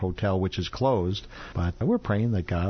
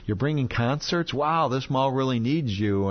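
higher-pitched impressed visitor; mock amazement; 5 semitones higher than usual. Visitor wowed by the mall ministry, mildly amazed. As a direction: lightly act out a wowed newcomer.

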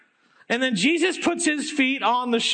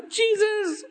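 desperate cry; 11 semitones higher than usual. Acted. Possessed man falls before Jesus.

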